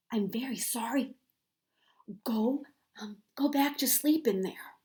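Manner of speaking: gentle apologetic whisper; soft whisper. A narrator's reading. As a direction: whisper sorry to the egg. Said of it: "whispered softly".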